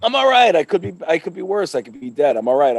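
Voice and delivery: loud, high hyped-up wrestler; wrestler promo voice. Acted. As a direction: cut a promo like a pro wrestler. Persona voice returns.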